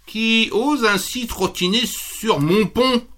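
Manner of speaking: a troll demanding who dares cross; roaring troll. Acted. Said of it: "rugit le treuil".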